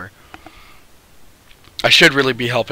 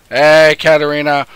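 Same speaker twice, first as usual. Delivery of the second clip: louder call; 5 dB louder than usual. Real, not acted.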